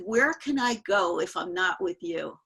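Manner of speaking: retold guru's emphatic challenge; insistent challenge. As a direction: press for an answer, imitating the teacher. Guru challenges disciple, demands an answer.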